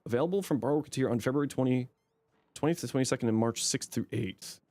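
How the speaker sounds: drowsy, low-energy reading; nodding off while reading aloud; half asleep. Real, not acted. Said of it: "I'm half asleep".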